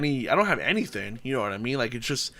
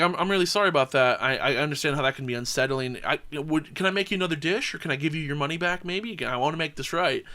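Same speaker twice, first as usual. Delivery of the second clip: bright, eager customer-service voice; overly polite kissing ass; 2 semitones higher than usual. Retold or imitated. Manager kissing ass to an angry diner. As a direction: grovel sweetly to calm the customer. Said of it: "Completely kissing ass".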